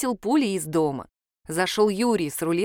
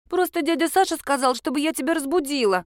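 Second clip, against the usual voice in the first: put-on child's excuse; 7 semitones higher than usual. A narrator's reading.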